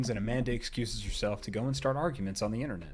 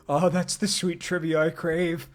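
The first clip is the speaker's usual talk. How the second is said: higher, louder gushing thanks; delighted; 5 semitones higher, 4 dB louder than usual. Real, not acted. Streamer thanking a viewer for trivia, gushing delight. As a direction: gush over the trivia.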